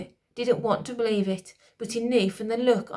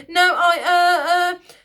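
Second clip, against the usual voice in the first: high, loud stammering queen; high flustered stammer; queen stuttering; 9 semitones higher, 10 dB louder, slower than usual. A narrator's reading. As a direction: stumble over the words. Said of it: "the lady stuttered".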